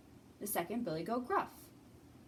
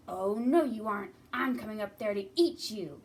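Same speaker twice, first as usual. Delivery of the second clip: angry troll; 7 dB louder than usual. Acted. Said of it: "a mean troll".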